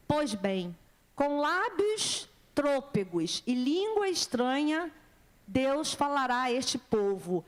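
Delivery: slow, measured verse reading; scripture reading. Acted. Preacher reading Isaiah to the congregation, solemn scripture reading. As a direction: proclaim the verse deliberately. Reads the Bible verse aloud.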